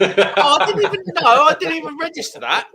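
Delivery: high startled exclamation; surprised. Real, not acted. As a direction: caught off guard, voice jumps high. Surprised while drinking.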